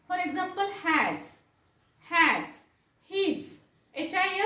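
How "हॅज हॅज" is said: हॅज ending in buzzing z, falling; isolated model word हॅज with voiced final sound. Shown as a demonstration. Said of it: "तशाच प्रकारे ज केव्हा होतो".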